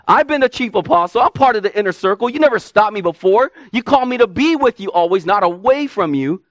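preacher acting out Peter's bold plea; voicing Peter.

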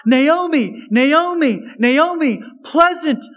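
mild mock calling of "pleasant one"; people calling her. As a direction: call out to her like the townspeople, lilting. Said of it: "to hear the people call her".

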